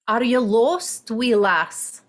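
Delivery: put-on a kindly Scottish local asking a lost girl; Scottish accent. Shown as a demonstration. Coach demos Scottish to acting students, lilting Scots voice. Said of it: "So in Scottish".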